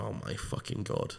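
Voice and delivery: hushed, slow, almost voiceless disbelief; retold stunned hush. Retelling fans' shock at the signing, stunned hush. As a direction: breathe it out slowly, barely audible.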